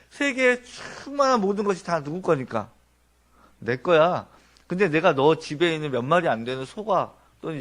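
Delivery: God pointing to all creation as His; a lightly voiced, boastful God; God's proud claim. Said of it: "이렇게 얘기하고 계신다는 거예요".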